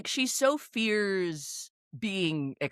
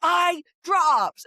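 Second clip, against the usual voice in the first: higher, insistent call; repeated mock calling; 8 semitones higher, 5 dB louder than usual. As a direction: keep calling it out over the distance. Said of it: "she pantomimes".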